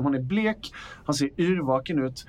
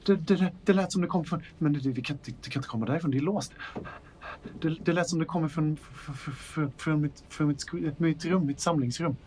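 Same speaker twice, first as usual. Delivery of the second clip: panicked stammer. Acted. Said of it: "helt panisk ut".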